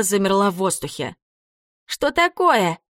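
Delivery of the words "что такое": high wailing ghost cry; a spooky ghost yelping in surprise; ghostly howl. A narrator's reading. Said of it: "взвыла она".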